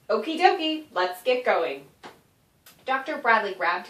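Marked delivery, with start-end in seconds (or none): 0.1-1.9 chirpy gnome. Acted. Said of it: "He clapped his pudgy hands".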